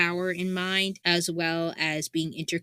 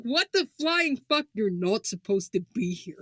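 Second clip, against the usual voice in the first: ranting mother; 3 semitones higher than usual. Pretend. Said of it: "her clearly young adult son".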